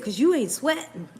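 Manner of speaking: quoting husband while laughing; can't keep a straight face; laughing through quote. Retold or imitated. Retelling husband's line to viewers, laughing. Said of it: "He said".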